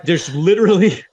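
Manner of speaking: pleading that he means no harm; mock earnest self-defence. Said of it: "I'm like".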